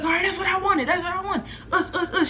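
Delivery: put-on high, laughing girl's taunt; mock laughing taunt. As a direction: egg her on through laughter, lightly voiced. Girl laughing as she swings.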